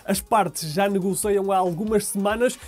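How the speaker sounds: measured, projected sports bulletin delivery; news read. Acted. Anchor reporting transfer news to viewers, news read.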